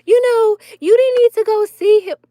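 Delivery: high sweet granny voice consoling a hurt granddaughter; grandma voice. Retold or imitated. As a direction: mimic sweet grandma comforting her. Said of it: "my grandma, sweet little grandma, was like".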